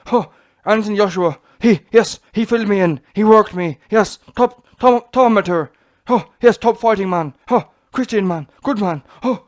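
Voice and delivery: loud huffing boxer bravado; mock Fury boasting with grunted huhs; Tyson Fury impression. Mocking Fury praising Joshua, loud hammed-up impression. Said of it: "We've heard it from him".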